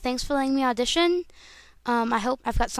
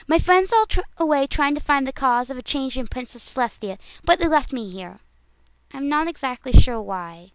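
Pinkie Pie. Acted. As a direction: pitch it up like a perky cartoon pony. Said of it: "All right, Pinkie Pie".

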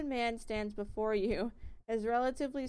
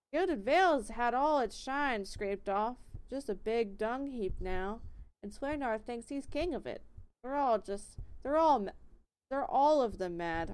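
put-on very country accent; 4 dB louder than usual. Miller complaining about the town, thick country accent. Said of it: "That is very country".

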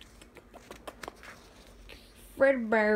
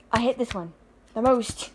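exasperated groan; 2 semitones higher, 6 dB louder than usual. Real, not acted. Builds complaint to a groan.

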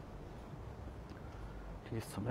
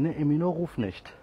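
telling off the cat; 5 semitones higher, 6 dB louder than usual. Real, not acted. Telling cat to stop calling.

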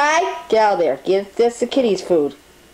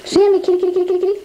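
calling a cat; 8 semitones higher, much faster than usual. Real, not acted.

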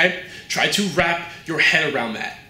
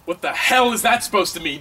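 offended flare-up; 5 semitones higher than usual. Acted. Star flares up at remark.

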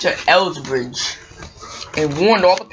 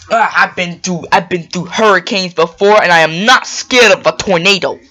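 defiant bluster; 6 dB louder than usual. Acted. Salty braces himself against tornado.

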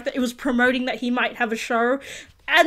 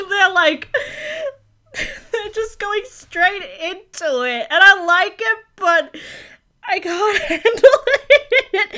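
laughing through tears; 4 semitones higher, slower than usual. Real, not acted. Laughing and crying at show.

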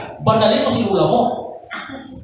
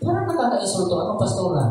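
offended complaint; 6 dB quieter than usual. Retold or imitated. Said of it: "pag sinabi na".

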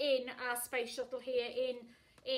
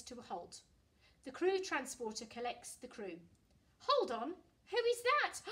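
put-on lively read-aloud voice for children; storytelling; 4 dB louder than usual. A narrator's reading. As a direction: read it like a bedtime picture book. Reading a picture book aloud.

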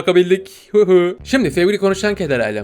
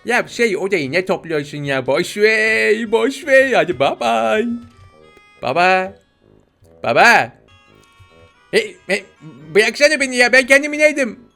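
put-on high, cutesy baby voice with childish mispronunciations; Bebek Gaffur; 4 semitones higher than usual. Player as the baby teasing dad, childish high voice. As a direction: play a cheeky talking baby, pitched up. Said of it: "Hadi o zaman Bebek Gaffur olalım biraz".

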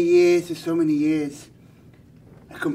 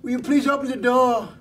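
higher sweet-talking wolf voice; a hammed-up hungry wolf, pitched up; wolf pleading at the door; 5 semitones higher than usual. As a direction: coax the piggy to open up.

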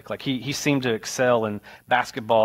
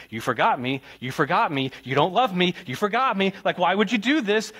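put-on hurt child; 6 semitones higher than usual. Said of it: "all I could focus on was".

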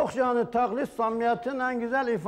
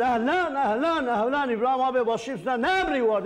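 mock Arab accent.

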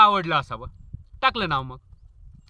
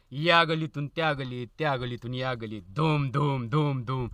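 mock biker cruising; 5 semitones lower, 5 dB quieter than usual. Mimics show-off biker cruising.

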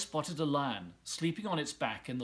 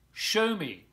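louder, higher demand; boy crying out to the crocodile, louder and higher; eager cry; 6 semitones higher, 7 dB louder than usual. Acted. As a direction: cry out to see it. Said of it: "cried the boy".

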